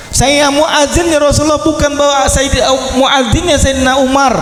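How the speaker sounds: stubborn retort, voice lifted in grief; indignant muezzin refusing; sulky protest. Retold or imitated. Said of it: "Ngambek dia".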